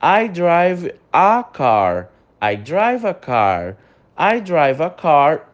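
very slow drill with "a car"; slow correct example. Shown as a demonstration. Teacher modelling the correct sentence slowly. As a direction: read the corrected line slowly. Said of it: "o correto é a".

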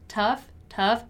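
isolated, repeated "tough" for learners; pronunciation demo. Shown as a demonstration. Teacher shows students the pronunciation of tough, pronunciation demo. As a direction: say "Tough" clearly as a model. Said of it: "the pronunciation of tough".

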